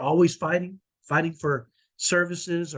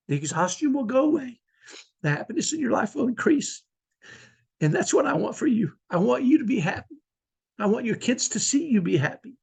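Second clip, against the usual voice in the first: after crying. Real, not acted. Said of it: "Sorry for the emotions".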